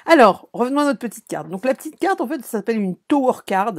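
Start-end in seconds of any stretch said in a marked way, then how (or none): 3.0-3.7 English words with a French accent; accent anglais approximatif. Real, not acted. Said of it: "Excusez-moi pour mon accent anglais". (anglais prononcé avec l'accent français)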